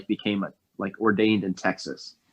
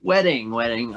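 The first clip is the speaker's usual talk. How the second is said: surprised repeat; 3 semitones higher than usual. Real, not acted. Caught off guard by topic.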